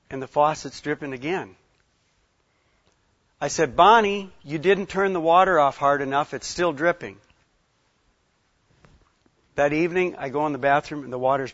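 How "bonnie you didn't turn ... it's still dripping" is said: retold exasperated complaint to a wife; mild scolding. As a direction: chide her, leading with a sharp call.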